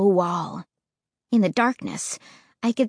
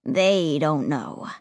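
wicked smile; 6 semitones lower, slower than usual. Acted. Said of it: "a wicked smile cross his face".

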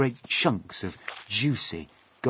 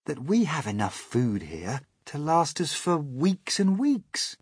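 patient; 9 semitones higher, 4 dB louder than usual. Acted. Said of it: "he said patiently".

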